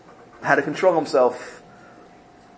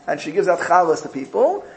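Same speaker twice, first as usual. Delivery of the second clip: much higher, louder meek little voice; humble disciple brushing off praise in a high voice; humble Naftali; 9 semitones higher, 3 dB louder than usual. Retold or imitated. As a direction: shrink yourself, high and self-effacing. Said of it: "He says".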